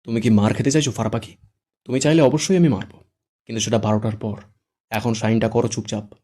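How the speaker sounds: gritted-teeth menace; through gritted teeth. Acted. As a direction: threaten her through clenched teeth. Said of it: "দাঁত চেপে বলে".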